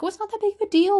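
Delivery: high, breezy brush-off; mock dismissive listener. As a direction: shrug it off like it's nothing. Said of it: "you guys might hear this and probably like".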